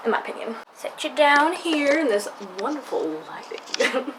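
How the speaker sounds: a light Irish lilt on the vowels; Irish accent demo. Shown as a demonstration. Showing viewers she can do Irish, Irish accent. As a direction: show off a quick Irish accent. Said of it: "I can do the Irish one".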